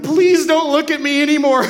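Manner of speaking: squirming, half-laughing please-stop; a giggly, mock-uncomfortable plea. Uncomfortable under piercing stare.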